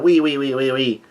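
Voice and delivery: mock laugh on repeated wee; imitated cartoon laugh. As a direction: spell out a character's odd laugh, half-hearted. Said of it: "is laughing out".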